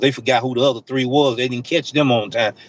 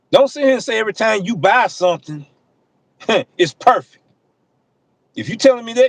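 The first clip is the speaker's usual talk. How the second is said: emotional; 7 semitones higher than usual. Real, not acted. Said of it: "When I get emotional, my voice change volumes".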